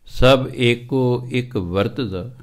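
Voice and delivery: slow, measured chanting of the verse; scripture recitation. Acted. Preacher reciting Sri Raag verse to the sangat, slow chant. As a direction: draw out each word of gurbani.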